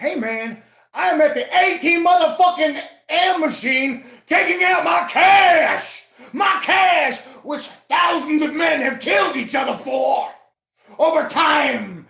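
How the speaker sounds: put-on angry shouting. Acting out yelling at a stranger at an ATM: put-on yelling at a stranger. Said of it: "Sometimes yelling is appropriate".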